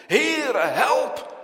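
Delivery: loud, high desperate call; drowning cry. Acted. Peter sinking in the waves, crying loudly for help. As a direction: cry out for rescue at full voice. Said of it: "toen hij ten onder ging in de golven".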